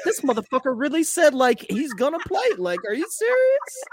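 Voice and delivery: mock outrage, pitch climbing to the end; incredulous player. Voicing the staring player's thoughts.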